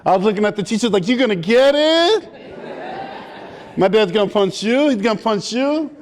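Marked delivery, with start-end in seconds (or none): 1.1-5.9 gloating taunt. Retold or imitated. Taunting the teachers, laughing.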